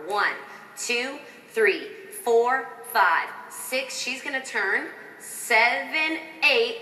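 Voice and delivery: counting the beats aloud; dance count. Shown as a demonstration. Choreographer counting dancers round the corner. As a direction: call the counts in rhythm. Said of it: "You're gonna start with your right leg".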